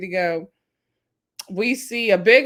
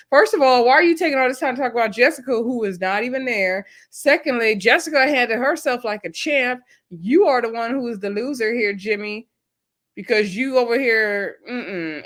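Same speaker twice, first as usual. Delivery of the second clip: mock scolding rant; 3 semitones higher than usual. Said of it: "And I was like".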